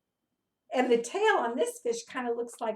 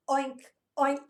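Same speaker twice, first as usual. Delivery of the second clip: mild pig oink; 3 semitones higher, 5 dB louder than usual. Retold or imitated. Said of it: "oink like a pig".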